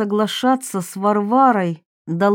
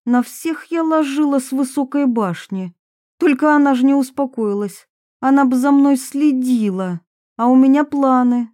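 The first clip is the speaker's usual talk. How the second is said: raised pitch, mildly prickly confession; lightly voiced defensive Varvara; 4 semitones higher than usual. Varvara admits a youthful film to her accusers, mildly defensive. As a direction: confess with a touch of defiance. Varvara rails about Olga.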